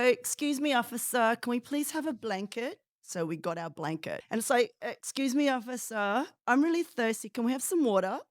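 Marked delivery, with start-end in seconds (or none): 0.0-2.8 higher, sweetly overpolite plea; butter up the officer, playfully; mock polite prisoner. Asking the officer for a blanket, mock polite. Retold polite jail cell request. 4.8-8.2 higher, sweetly overpolite plea; butter up the officer, playfully; mock polite prisoner. Asking the officer for a blanket, mock polite. Retold polite jail cell request.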